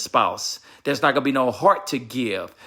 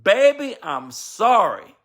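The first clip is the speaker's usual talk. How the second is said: put-on high "Baby" then a very slow, drawn-out "I'm sorry"; a husband humbly apologizing to his wife, slow and sincere; heartfelt apology; 7 semitones higher, slower than usual. Shown as a demonstration. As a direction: plead it from the heart, stretching "sorry". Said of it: "the most powerful word a husband and a wife can say".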